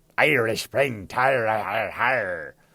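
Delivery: over-the-top fake Irish accent, pirate style. The speaker mimics how an American producer wanted him to sound Irish: exaggerated pirate-like Irish accent. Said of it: "that's literally how he wanted me to fucking sound".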